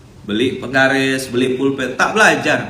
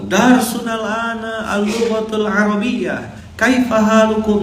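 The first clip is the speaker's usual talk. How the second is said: higher, slow Arabic classroom greeting; ustadz voice; 9 semitones higher, slower than usual. Retold or imitated. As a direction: greet the class like a strict teacher. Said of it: "kata ustaznya".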